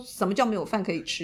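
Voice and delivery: 重读“叫”，语气质问而下沉; 带着几分火气反问“什么叫”; retold outrage. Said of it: "震怒". (半开玩笑地重现当时的震怒)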